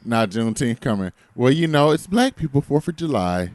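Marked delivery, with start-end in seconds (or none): 1.4-3.5 mimicking Naomi. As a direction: switch sides with a grin. Imitating Naomi's switch.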